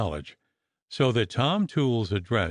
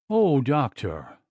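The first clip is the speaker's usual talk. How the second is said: gasped; 4 semitones higher, slower than usual. Acted. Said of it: "gasped poor Missus Stirk".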